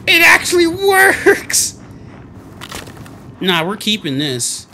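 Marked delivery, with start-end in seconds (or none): 0.1-1.8 slow, high triumphant yell; ecstatic shout. Real, not acted. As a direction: scream it out in disbelief. Gamer shouting the discovery again.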